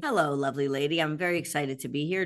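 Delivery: slightly hoarse, scratchy morning voice; a touch croaky, just woken up. Real, not acted. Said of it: "despite my croaky morning voice".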